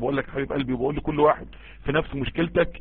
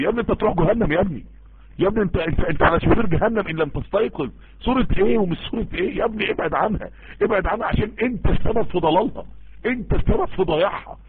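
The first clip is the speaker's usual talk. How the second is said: raised, scolding hellfire sermon voice, higher; hammed-up scolding of a young man about hell; mock harsh preacher; 4 semitones higher than usual. Imitating a zealot scolding a young man, higher and scolding.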